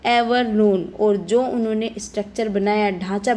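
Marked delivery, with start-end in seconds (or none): 0.1-0.8 slow, careful read of a speech text; slow reading aloud. Acted. Teacher reading Mandela's speech to students, slow and careful. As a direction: read each English word slowly for the class.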